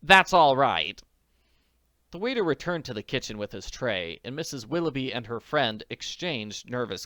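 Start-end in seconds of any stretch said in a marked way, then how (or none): 0.0-1.0 a lightly voiced lady, slowly; slow character line. Waiter told it's fine, slow lady voice. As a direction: gently answer the waiter, slow and a bit louder.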